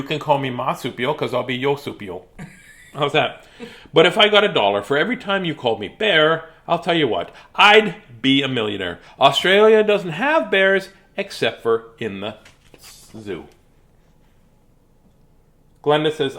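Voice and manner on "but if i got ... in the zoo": mildly hammy storybook complaint, dropping away at the end; lightly voiced exasperated Warren. Warren complaining about being called bear, mildly exasperated. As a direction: grumble with deliberate emphasis.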